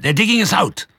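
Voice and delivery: high, loud alarm shout. Acted. Mister Fox waking his family as diggers come, loud shout. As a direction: yell to wake the family. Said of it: "he shouted".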